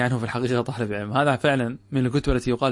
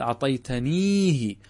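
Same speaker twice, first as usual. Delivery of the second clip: slow example word; much slower than usual. Shown as a demonstration. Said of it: "فنقول".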